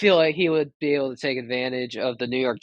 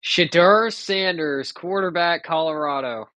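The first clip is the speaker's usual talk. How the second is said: draft announcer. Pretend. Announces pick.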